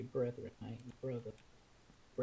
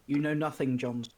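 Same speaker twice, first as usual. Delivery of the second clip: booming Jon Snow line; loud movie quote; 9 dB louder than usual. Retold or imitated. Gamers quoting Game of Thrones, loud. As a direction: belt it like the show.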